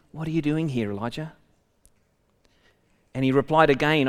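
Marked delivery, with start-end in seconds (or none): 0.1-1.3 softer, falling to a hush on Elijah; gentle whisper. Acted. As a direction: speak it like a still small voice. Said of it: "there was a sound of a gentle whisper".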